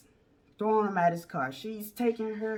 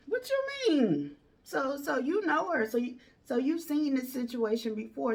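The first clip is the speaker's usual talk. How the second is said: stunned what you mean; 6 semitones higher than usual. Retold or imitated. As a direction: let your voice jump up in shock. His own shocked reply.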